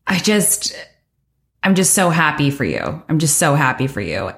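emotional, voice rising high and catching on a laugh; moved almost to tears, laughing through it; teary and happy. Real, not acted. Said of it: "getting teary right now".

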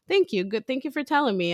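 put-on high, breezy child voice; child's thanks. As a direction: thank her lightly, high and easy. Daughter voiced thanking mom.

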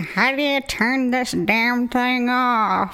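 put-on old man grumble. Mimicking old man with phone.

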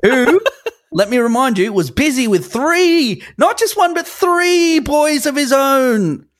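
rambling grandpa story. Pretend. The Brady story goes on.

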